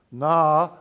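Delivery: "na" held long as "naa", loud. Shown as a demonstration. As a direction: stretch the vowel of "na". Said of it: "with a long A".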